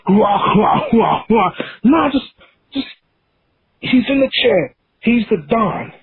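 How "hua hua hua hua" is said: mock villain laugh. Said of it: "Not even him just laughing".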